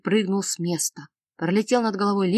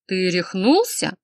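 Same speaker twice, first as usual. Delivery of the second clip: slow, louder angry bark; 4 dB louder, slower than usual. Acted. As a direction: snap at him in disbelief. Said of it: "гаркнул Нестор".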